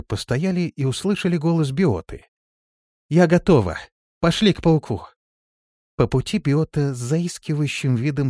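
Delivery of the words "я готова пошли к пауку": high, loud call to the others. A narrator's reading. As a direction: call over to the group. Calling to the others.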